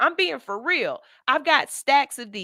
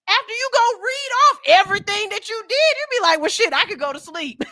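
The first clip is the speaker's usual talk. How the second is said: high-pitched giggly boast; laughing brag; 11 semitones higher, 5 dB louder, faster than usual. Real, not acted. Host laughing at finishing her whole list. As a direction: laugh it off, pleased with yourself.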